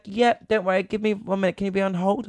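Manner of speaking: mock operator brushing off the complaint; breezy operator. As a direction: play her as breezy and brushing him off.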